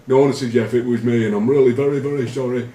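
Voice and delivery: high, loud pleading mimicry; panicked confession. Teammate pleading with captain, hammed-up panicky high voice. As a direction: beg like a frightened teammate caught out.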